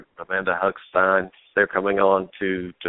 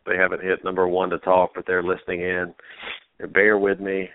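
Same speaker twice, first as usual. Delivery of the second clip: short of breath, slightly wheezy; wheezy voice, struggling for air. Real, not acted. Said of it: "if I sound like I can't breathe".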